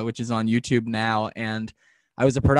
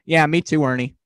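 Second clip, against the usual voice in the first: Bert voice; 4 dB louder than usual. Retold or imitated. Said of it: "you do the voices very well".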